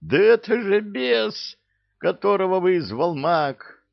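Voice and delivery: high, loud startled cry; exclaiming. Acted. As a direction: blurt it out in shock. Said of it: "воскликнул он".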